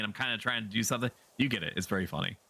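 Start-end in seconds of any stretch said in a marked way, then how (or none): 0.0-1.1 quick light mock-annoyed quip; fast, teasing mock complaint; imitating Yanni joking. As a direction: toss it off as a playful gag. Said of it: "having a gag by saying".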